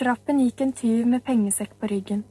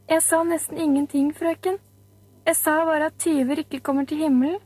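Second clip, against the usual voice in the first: slightly higher, innocent schoolboy voice; child's voice; 5 semitones higher than usual. Acted. Schoolboy defending himself to the teacher, lightly voiced child. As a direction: play the boy pleading his innocence, lightly.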